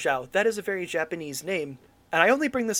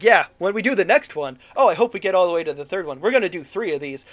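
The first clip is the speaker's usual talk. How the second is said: mock enthusiasm, a bit loud; eager director; 6 dB louder than usual. Director in the interview about sequels, mock eagerness. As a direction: gush along, imitating an over-keen filmmaker. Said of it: "he's like".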